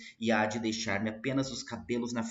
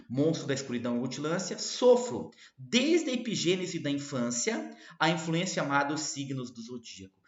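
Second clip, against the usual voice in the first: declame com voz mais aguda no meio; recitação de poema; 3 semitones higher, 4 dB louder than usual. Acted. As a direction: versos lidos com ênfase crescente em "sofro". Recita os versos. (declamação poética enfática)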